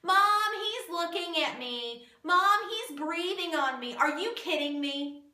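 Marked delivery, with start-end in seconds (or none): 0.0-4.0 put-on whiny little kid tattling to mom; whiny tattling little sibling. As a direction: whine like a five-year-old telling on a sibling. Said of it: "like, five years old again".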